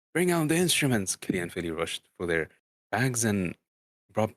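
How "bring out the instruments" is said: louder command. Acted. Thorin redoes his call to the dwarves, louder command. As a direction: redo the line as a ringing call, higher and louder.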